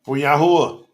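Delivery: emotional, halting, with a heavy sigh; overcome with emotion. Real, not acted. Preacher dedicating himself to Yahuwah, overcome with emotion. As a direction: break off, moved, then push the name out. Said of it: "I'm so emotional for Yahuwah".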